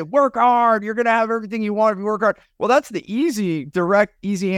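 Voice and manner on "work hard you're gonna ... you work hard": quoting people. Retold or imitated. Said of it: "People always say".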